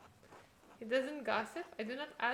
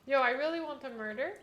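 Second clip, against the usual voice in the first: loud, higher, eager outburst; eager exclaim; 4 semitones higher, 10 dB louder than usual. Real, not acted. Gamer begging the game for a murder, loud and eager. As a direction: blurt it out, itching for action.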